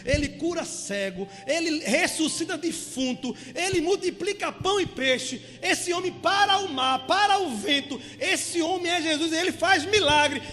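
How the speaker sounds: blind man's excited hope. Acted. Blind Bartimeu telling himself Jesus heals, growing excited. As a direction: let the hope swell as he lists the miracles.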